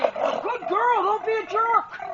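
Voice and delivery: high, soft coaxing voice to the pig; butter her up gently; sweet-talking. Real, not acted.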